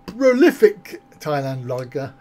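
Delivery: slow, chuckling through the words; amused repeat. Real, not acted. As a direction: read the phrase out slowly, laughing at it. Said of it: "Yes, prolific".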